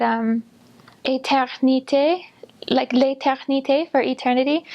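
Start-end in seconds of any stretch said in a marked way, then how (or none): 1.0-2.2 "éternité" slowly, the R made in the back of the throat; slow "éternité" with a throaty French R. Shown as a demonstration. Missionary showing the hard French R to listeners, throaty R in "éternité". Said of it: "the ch in the back of the throat". 2.9-3.9 "l'éternité" with the R in the back of the throat; back-of-throat French R. Shown as a demonstration. Missionary showing the hardest French sound, throaty R in "l'éternité". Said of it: "the ch in the back of the throat".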